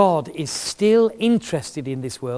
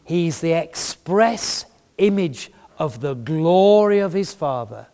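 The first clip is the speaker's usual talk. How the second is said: solemn scripture quote; slower than usual. Real, not acted. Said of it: "this is what the Bible says".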